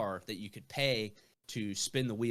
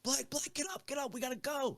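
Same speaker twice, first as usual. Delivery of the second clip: friends calling; 3 dB quieter than usual. Retold or imitated. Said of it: "They're like".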